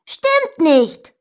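high, loud repeat; shouted denial. A narrator's reading. Brother contradicts sister, loud stubborn shout. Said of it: "schrie ich".

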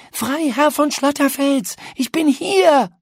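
high, loud call stressing von. A narrator's reading.

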